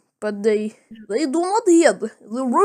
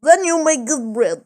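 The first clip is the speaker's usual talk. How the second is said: mock Russian accent, much higher and a bit louder; mock Russian officer; 4 semitones higher, 6 dB louder than usual. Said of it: "And then he says".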